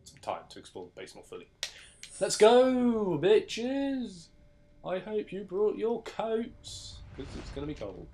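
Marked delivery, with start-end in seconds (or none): 2.2-4.3 high, loud battle cry; excited rallying shout. Real, not acted. Rallying start of the mission. 4.8-8.1 teasing. Pretend. Teasing warning before cold level.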